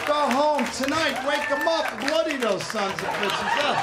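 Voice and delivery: rally the crowd like a politician; mock politician.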